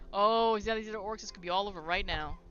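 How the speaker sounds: lightly voiced dwarf throwing down a dare; defiant dwarf. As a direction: play a dwarf challenging his accusers. Dwarf challenges the orcs.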